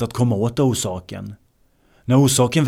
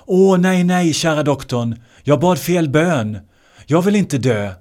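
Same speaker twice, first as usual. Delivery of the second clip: high, louder desperate pleading; pleading old people; 3 semitones higher, 3 dB louder than usual. Retold or imitated. Old couple begging the doctor for life, high and desperate. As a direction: beg the doctor not to let you die.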